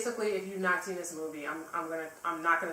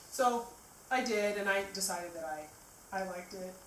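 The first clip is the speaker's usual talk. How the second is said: burping; 3 semitones higher than usual. Real, not acted. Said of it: "I'm, like, burping".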